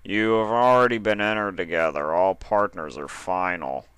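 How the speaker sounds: a lightly voiced stern judge; stern official. Mister Gray telling Dash partners are final, a hint of stern official. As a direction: state the rule like a bored official.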